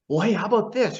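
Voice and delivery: mock casual pitch of an idea; imitating Roy's suggestion. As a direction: toss the idea out lightly, voice lifted.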